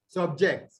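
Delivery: SubJECT, weight on "ject"; second-syllable stress. Shown as a demonstration. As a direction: verb Subject, light "Sub", full "ject". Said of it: "On the second syllable".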